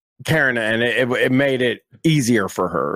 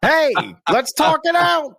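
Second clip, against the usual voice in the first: pitched way up, timid, laughing a little; mock meek teen voice, higher and sheepish; meek pushover; 9 semitones higher than usual. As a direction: play the spineless boyfriend who avoids conflict. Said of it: "and I was like".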